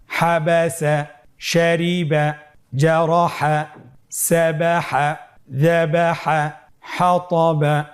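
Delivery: measured recitation of each whole word; drawn-out syllables, word after word; reading without spelling. Shown as a demonstration. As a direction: lead the class in an even chant. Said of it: "বানান ছাড়া বলতে হবে".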